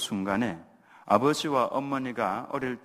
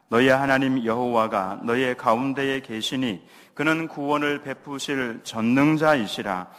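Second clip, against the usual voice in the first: louder, steady reading-aloud cadence; unison scripture reading; 6 dB louder than usual. Acted. Pastor leads the congregation reading Zephaniah aloud, loud and steady. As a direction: read the verse out together like a congregation.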